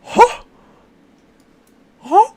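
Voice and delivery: stunned at the number; disbelief. Real, not acted. Streamer stunned by huge damage, loud huh.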